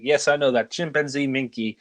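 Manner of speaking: lightly imitated mock French; Clouseau's French accent. Clouseau calmly answering his boss, lightly imitated French accent. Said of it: "exaggerated French accent is just perfected".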